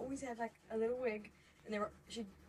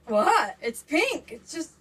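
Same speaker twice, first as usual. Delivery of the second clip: defensive retort; 2 semitones higher, 16 dB louder, much slower than usual. Retold or imitated. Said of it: "And I was like".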